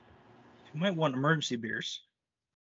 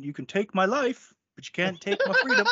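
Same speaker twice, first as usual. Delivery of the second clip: Braveheart speech; 4 semitones higher than usual. Acted. Braveheart quote, rising.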